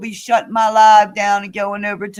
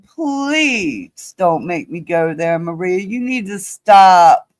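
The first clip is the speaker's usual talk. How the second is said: pleading warning; 4 semitones lower than usual. Real, not acted. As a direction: warn them while holding back. Repeated warning to Maria.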